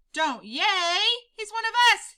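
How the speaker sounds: high loud protest; yelled. Acted. Pip scolding the cheering crowd, high yell. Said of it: "yelled Pip".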